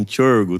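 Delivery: Tiorgo with a "ch" start, "CHOR-go"; pronunciation demo. Shown as a demonstration. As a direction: say Tiorgo as a model, "chorgo". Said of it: "a pronúncia é assim".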